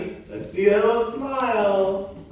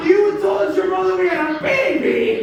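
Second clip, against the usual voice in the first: loud, high-pitched disbelief; shocked shout; 7 semitones higher, 5 dB louder than usual. Acted. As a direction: yell it in outrage. Shocked partner confronts her.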